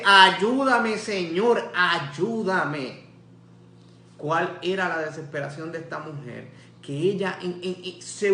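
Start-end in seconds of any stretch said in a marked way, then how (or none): 0.0-3.0 a desperate mother's loud cry for help; loud plea. Acted. Kneeling mother begs Jesus for help, loud crying plea.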